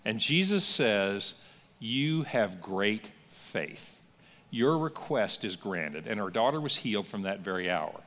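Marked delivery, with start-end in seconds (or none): 1.8-6.1 slow gentle blessing. Retold or imitated. Jesus grants the woman's request.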